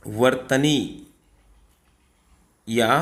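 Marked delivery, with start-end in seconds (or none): 0.1-1.1 वर्तनी drawn out slowly syllable by syllable; teacher slowing down on the key word; slow stressed term. Shown as a demonstration. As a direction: say वर्तनी very slowly for students to note. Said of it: "लिखने की रीति".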